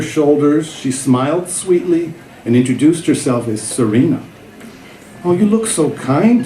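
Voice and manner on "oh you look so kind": a light hint of a soft Mandarin accent. Young tutor Serena greeting her new student, light soft Mandarin accent. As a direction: gently imitate a young Mandarin speaker, lightly done. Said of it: "she said in a soft Mandarin accent".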